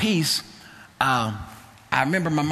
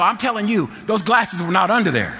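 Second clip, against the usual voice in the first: raised, higher retold protest; emphatic insistence; 5 semitones higher, 3 dB louder than usual. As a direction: imitate a mama who will not be convinced. Retold mama insists, arguing back.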